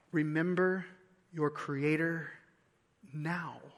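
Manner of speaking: "now" set apart after a long pause, low and soft; slowly, softly, pause, then let "now" land alone; stress on now. Real, not acted. Preacher giving the book's key line to listeners, stress on "now" after a pause. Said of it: "the emphasis is on the now".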